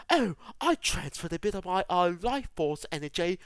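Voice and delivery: lightly voiced Rey, barely changed; a quick, half-hearted take on Rey; terrible Rey impression. Mocking Rey's line about healing, a weak Rey impression. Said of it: "That was a terrible impression of Rey".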